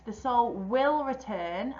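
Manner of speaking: slow, with will firmly stressed; teacher modelling a modal verb, will leaned on slowly. Shown as a demonstration. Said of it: "So that's much better than saying the soul might return".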